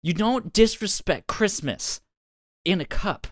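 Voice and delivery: put-on high, loud drunk insistence. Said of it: "she goes".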